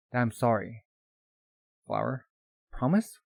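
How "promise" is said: startled echo. Acted. Boy's startled echo of the word.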